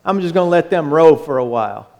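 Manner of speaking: fast, offhand inner voice; breezy aside, let them row; lightly voiced, amused Jesus; Jesus' musing. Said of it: "I don't know if he was like".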